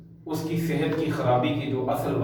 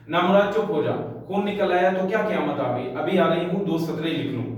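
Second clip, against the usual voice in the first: scolding mother; 3 semitones higher than usual. Acted. Mother scolding her crying child while writing a letter, sharp. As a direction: snap at the child to hush.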